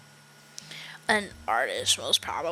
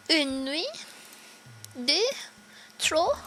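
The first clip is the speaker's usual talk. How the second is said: French guest; 5 semitones higher, slower than usual. Acted. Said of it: "she's supposed to be French".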